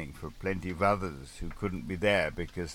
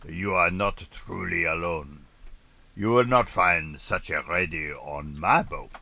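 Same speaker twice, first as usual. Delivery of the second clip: a touch of a stern French sailor, louder; lightly voiced growling Frenchman; 5 dB louder than usual. Frenchman François scorning the writer's radio, mild growl. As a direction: mildly growl it out. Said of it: "he growled".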